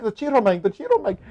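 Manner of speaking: high-pitched Dominican "Cheeto man"; hammed-up Dominican accent; heavy Dominican accent. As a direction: imitate a Dominican barber insisting. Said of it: "he's very heavy Dominican accent".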